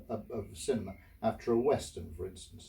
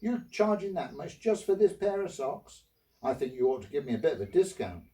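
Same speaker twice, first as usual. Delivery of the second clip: higher voice, put out by the price of socks; woman complaining to the shopkeeper, higher and indignant; indignant woman customer; 5 semitones higher than usual. Retold or imitated. Customer haggling with the sock seller, high indignant voice. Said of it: "She said".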